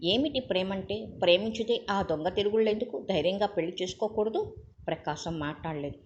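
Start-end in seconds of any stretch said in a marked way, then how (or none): 0.0-4.5 mocking. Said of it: "హేళనగా నవ్వాడు రఘు".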